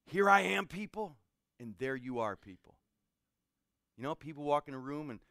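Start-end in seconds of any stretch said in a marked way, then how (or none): 0.1-1.2 self-important announcing. Retold or imitated. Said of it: "Jerry Root likes to say". 1.6-2.8 welcoming. Retold or imitated. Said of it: "Jerry Root likes to say".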